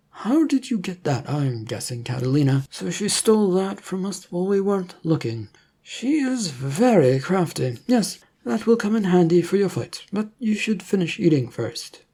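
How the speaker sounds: a hint of a polite official offering food; government agent. Agent surprised then approving.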